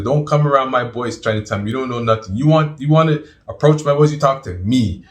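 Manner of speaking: stern warning, swelling midway; Abdul Azim, very serious. Retold or imitated. Elder warning someone off his boys, serious imitation. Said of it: "he was very serious".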